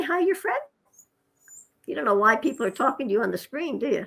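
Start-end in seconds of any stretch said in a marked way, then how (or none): 0.0-0.6 higher parrot voice, questioning; light parrot mimicry, rising; parrot imitation. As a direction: play the parrot puzzled at the screen. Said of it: "You say".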